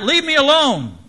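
loud, high-pitched yell of protest; indignant shout. A narrator's reading. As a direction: yell it out at full voice, pitch jumping up. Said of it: "I yelled out".

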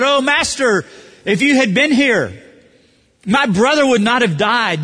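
high, loud reproach to the Master; accusing. Acted. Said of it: "You catch the inflection of accusation there?".

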